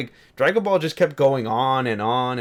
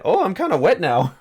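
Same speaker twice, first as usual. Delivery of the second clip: raised, louder breathy-sounding quote; quoting dub character; 6 semitones higher, 4 dB louder than usual. Retold or imitated. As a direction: play the dubbed character, a bit hammy. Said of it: "She said".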